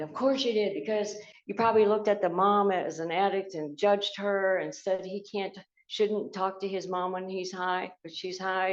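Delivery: indignant retold outburst; angry inner rant. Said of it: "I started getting mad".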